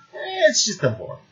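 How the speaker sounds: put-on high, dismissive Russian-accented demon; offhand demon with a Russian accent. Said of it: "I did my Russian accent for the demon".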